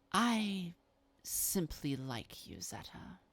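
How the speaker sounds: lightly voiced vampire, ingratiating; understated coaxing, lingering on some phrases; Babs. Malkavian offers another book to win favour, lightly acted coaxing.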